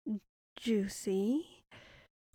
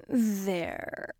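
menacing whisper; 3 dB louder than usual. Acted. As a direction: whisper sweetly over trapped prey. Creature whispering to captive.

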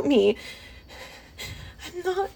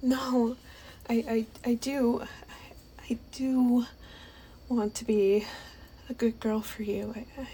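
soft and lower, whispered; meek whisper to her partner; submissive whisper; 3 semitones lower, 9 dB quieter than usual. Acted. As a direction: hush it meekly.

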